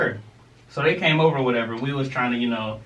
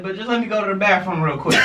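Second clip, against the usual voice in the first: hasty excuse; 6 semitones higher, 3 dB louder, faster than usual. Retold or imitated. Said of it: "I was like".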